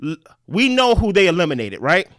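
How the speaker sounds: deliberate, with pauses between points; slow it down so the listener follows. Real, not acted. Explaining the theory to a lost co-host, slowed down. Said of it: "let me slow it down".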